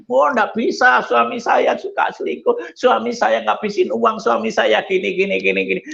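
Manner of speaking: high, indignant complaining wife; upset wife refusing. Retold or imitated. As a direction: protest her husband's wrongs. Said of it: "wife refuses to forgive". (istri yang kesal menolak mengampuni suami)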